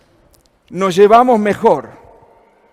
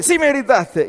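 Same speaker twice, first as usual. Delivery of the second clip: higher-pitched stubborn insistence; mock insistent retort; 6 semitones higher than usual. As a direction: dig in and insist like a stubborn child. Daughter insists in the quarrel.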